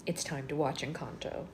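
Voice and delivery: lightly put-on mom telling someone what to do. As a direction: draw out the name, then gently lay down the law. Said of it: "put my mom voice on".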